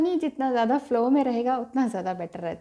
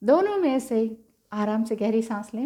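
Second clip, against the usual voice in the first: ordinary talk, nothing marked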